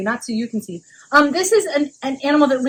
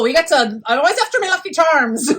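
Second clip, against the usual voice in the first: put-on Irish accent; 2 semitones higher than usual.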